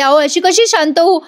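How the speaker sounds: mildly dramatized anxious insistence; imitated agitation. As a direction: act out a sister too upset to calm down. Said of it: "जरा शांत होता का".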